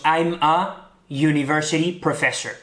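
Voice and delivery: slow, careful "I'm a university professor"; English example sentence. Shown as a demonstration. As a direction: model "university" with a Y sound at the start. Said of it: "cuando decimos". ("university" pronunciado con sonido de Y inicial, despacio)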